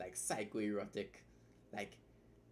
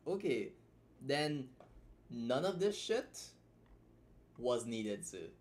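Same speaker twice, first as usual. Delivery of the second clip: slow, punched none of this shit; emphatic; slower than usual. Real, not acted. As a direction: lean hard on each word. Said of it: "emphatic verdict on the writing".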